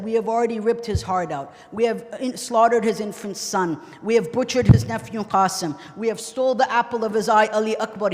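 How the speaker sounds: loud, forceful retold boast; impassioned boast. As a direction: declaim the enemies' boast with force. Enemies' boast retold in sermon.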